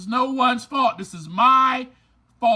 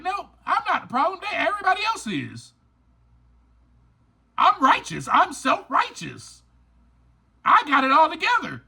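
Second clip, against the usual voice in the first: fast, higher, smug mocking voice; mock self-righteous; 5 semitones higher than usual. Speaker mimicking listeners in denial, mock smug and fast. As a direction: lightly send up someone who insists they are blameless.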